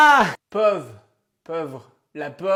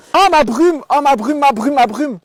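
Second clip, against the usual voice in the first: high, loud delighted chanting; gushing delight; 6 semitones higher, 13 dB louder, slower than usual. Acted. En vidant son sac devant le caissier, ravie de retrouver sa brume. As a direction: coo over a beloved find. Finds her mist spray.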